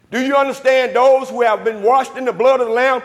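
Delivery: driving sermon rhythm, punched questions and answers; full-force preaching. Acted. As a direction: hammer the gospel home to the congregation. Preaches with call-and-response questions.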